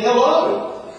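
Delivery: gentle hello. Retold or imitated. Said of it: "And he said".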